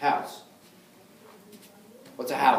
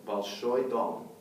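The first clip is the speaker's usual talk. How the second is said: slow modelled Russian; 3 semitones lower, slower than usual. Shown as a demonstration. Teacher models Большой дом slowly for students. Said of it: "That's the nominative".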